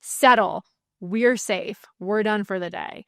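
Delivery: firm, clear command; firm authority. Shown as a demonstration. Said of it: "you say it with authority".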